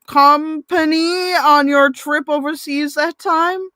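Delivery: lightly voiced romance heroine, breathless and grateful; Tia's voice. Reads Tia's dialogue aloud.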